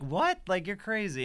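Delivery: a high, loud shocked what; incredulous outburst. Retold or imitated. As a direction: sneer that they must be crazy. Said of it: "it was like".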